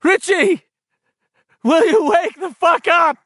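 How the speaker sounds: high, loud, breaking shout; shaky shout. A narrator's reading. Ben begging Richie to wake up, shaky shout. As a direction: yell at him near tears. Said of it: "Ben's voice was blurring now, becoming shaky".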